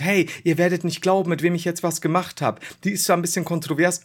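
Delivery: hyped YouTuber intro into a whisper; clickbait video narrator. Retold or imitated. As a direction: tease the collab, then whisper the clicks.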